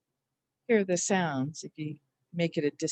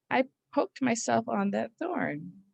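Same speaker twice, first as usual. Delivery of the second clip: mini story voice; 4 semitones higher than usual. Shown as a demonstration. Teacher acts a memory sentence for spelling. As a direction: act out poking yourself on a thorn. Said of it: "You can say to yourself".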